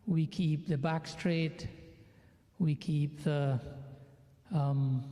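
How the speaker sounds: measured meditation guidance with long pauses; guided meditation. Real, not acted. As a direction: calmly guide them through each breath, unhurried. Leads a breathing meditation.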